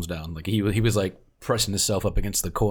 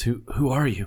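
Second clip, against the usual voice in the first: voice with a slight rasp; 4 semitones higher than usual. Voicing a man who has just recovered, asking who they are, a little raspy. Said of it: "A little raspy in the voice says".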